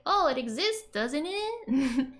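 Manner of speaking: mildly surprised discovery; mock surprise. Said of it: "It's like".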